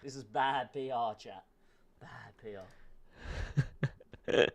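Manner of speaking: muttering to chat under his breath; soft low aside; quiet. Real, not acted.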